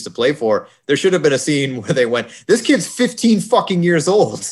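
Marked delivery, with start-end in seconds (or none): 2.5-4.4 laughing. Pretend. Imagined scene line, laughing.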